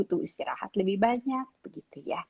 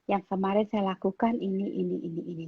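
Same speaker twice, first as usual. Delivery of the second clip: politely; 6 dB quieter than usual. Retold or imitated. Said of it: "Ngomongnya tapi baik-baik".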